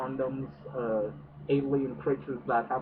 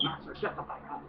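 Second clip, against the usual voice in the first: whispered snap; 3 semitones higher, 5 dB quieter, faster than usual. Retold or imitated. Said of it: "and I'm like".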